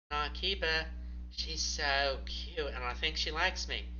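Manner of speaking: Mouse. Acted. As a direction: Mouse doting on the kitten, lightly voiced. Mouse hands over the kitten.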